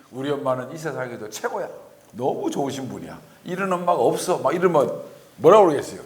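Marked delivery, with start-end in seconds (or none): 0.1-4.4 put-on softer, childlike adoring voice; sweet child praise. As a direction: coo it like a child flattering mom. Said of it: "애가 얼굴이 달라지더니". (엄마를 칭찬하는 아이처럼 부드럽게)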